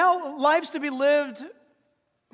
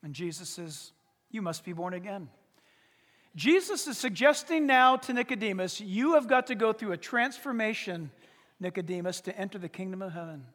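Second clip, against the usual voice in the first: much softer and lower, close and earnest; intimate hush; 6 semitones lower, 6 dB quieter than usual. Acted. Preacher voicing Jesus to Nicodemus, soft and earnest. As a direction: draw them in quietly.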